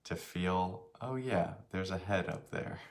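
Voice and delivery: unhurried meditation guide, long pauses between phrases; slightly softened voice, leaving space after each phrase; guided meditation. Real, not acted. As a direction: guide them gently through a body scan. Leads a meditation.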